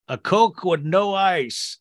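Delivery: slow imitation of grandpa's stroke voice. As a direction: drag it out like grandpa after his stroke. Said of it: "stroke voice".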